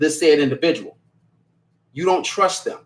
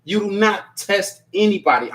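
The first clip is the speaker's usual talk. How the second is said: snapping; 3 semitones higher than usual. Real, not acted. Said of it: "I'm sorry for snapping".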